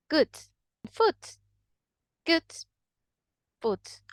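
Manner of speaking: good and foot with the same short u; short Scottish vowel. Shown as a demonstration. Teacher modelling Scottish vowels, short u. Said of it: "pronounce in the same way".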